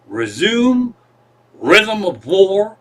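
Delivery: "Resume Rhythm of War" said slowly, each word set apart; enunciating to device. Retold or imitated. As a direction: carefully articulate "Resume Rhythm of War" as a voice command. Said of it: "I, I enunciate, I know how to talk".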